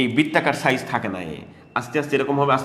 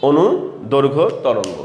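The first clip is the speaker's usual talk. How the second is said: slow dictation; much slower than usual. Shown as a demonstration. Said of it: "এই নামটা ওনারা দিয়েছেন হচ্ছে".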